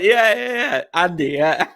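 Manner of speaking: teasing "yeah, Andy" through laughs; laughing. Retold or imitated. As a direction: say it while cracking up. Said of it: "I was like".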